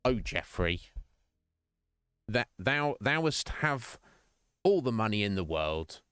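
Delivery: halting, hammed-up archaic plea; light parody of solemn praying; mock prayer. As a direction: intone it slowly like a pretend supplication. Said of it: "I've not been praying to Jeffrey".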